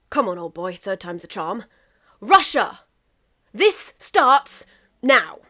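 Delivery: loud, slow and emphatic; England's third attempt at a grand declaration to Russia; bold challenge. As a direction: announce it like a duel, dragging the words out.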